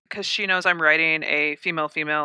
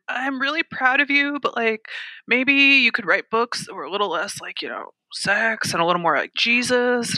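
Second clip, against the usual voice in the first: lightly voiced grandma, higher pitched; a hint of a gently hinting grandma; 5 semitones higher than usual. Grandma nudging her granddaughter toward tamer books, gently. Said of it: "when my grandma was still alive".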